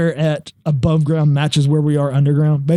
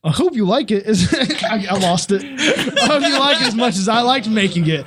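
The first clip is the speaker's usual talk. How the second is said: mock Canadian voice cracking into laughter; laughing through accent; 4 semitones higher than usual. Reading Luke's letter to the group, laughing through a mock accent. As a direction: try to keep the accent but keep cracking up. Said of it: "Quit making me laugh".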